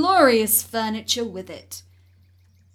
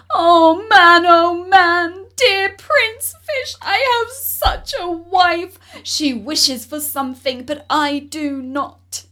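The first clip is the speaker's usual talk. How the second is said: higher, much louder call over the wind; crying out over the storm; 7 semitones higher, 11 dB louder than usual. Acted. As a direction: shout to be heard in a gale. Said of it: "cried out, without being able to hear his own words".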